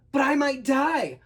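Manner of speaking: slow, high, loud plea; high-pitched mock crying plea; tearful. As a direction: wail it like a frightened boy. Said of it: "he couldn't help crying".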